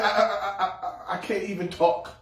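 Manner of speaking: 1 stuttering Moses. Retold or imitated. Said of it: "And Moses said".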